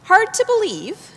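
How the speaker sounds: high, scoffing repeat of hard to believe; incredulous echo. Acted. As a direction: throw the words back in disbelief. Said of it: "And this is what he says".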